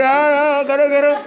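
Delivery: loud, high giggly taunting; laughing child. Retold or imitated. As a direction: mimic a kid laughing it off. Child laughing at scolding father. (हँसते हुए बच्चे की ऊँची आवाज़)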